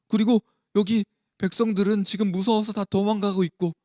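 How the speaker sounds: mildly defensive, strung-out explanation; making excuses. Acted. Saul explaining himself to an angry Samuel, making excuses. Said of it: "핑계를 대면서 이야기를 했어요".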